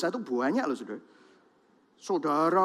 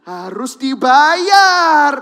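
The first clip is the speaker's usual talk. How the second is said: very slow, loud, high, anguished stress; drawn-out, crying shout; emphatic cry; 6 semitones higher, 14 dB louder, much slower than usual. Real, not acted. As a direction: hammer home that it must be paid. Preacher repeats for emphasis.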